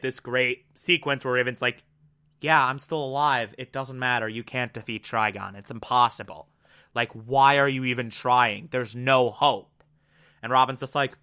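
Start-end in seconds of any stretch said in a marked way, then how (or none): 2.4-9.8 mild imitation of a despairing girl; understated gloomy resignation; hopeless. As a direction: lower and softer, a defeated mumble. Raven despairing, quoted.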